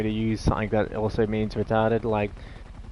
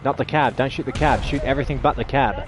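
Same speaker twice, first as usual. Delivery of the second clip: shouting; 5 semitones higher, 3 dB louder than usual. Real, not acted. Yelling at teammate mid-battle.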